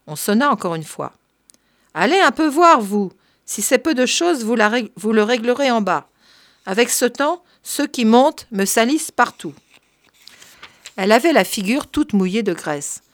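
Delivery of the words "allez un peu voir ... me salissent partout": bossy servant. Acted. Marthe sending the curé to the door, mildly nagging. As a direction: order him off with a grumble.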